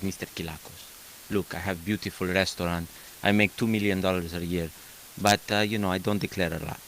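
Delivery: light imitation of a Greek restaurant owner's accent; a hint of a Greek accent, played for laughs. Mortgage broker mimics a Greek client, light Greek accent. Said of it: "how do you like my Greek accent".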